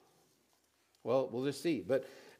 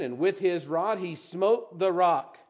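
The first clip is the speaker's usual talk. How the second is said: slow, then "twice" almost whispered; dramatic drop; slower than usual. Shown as a demonstration. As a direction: let "twice" fall away.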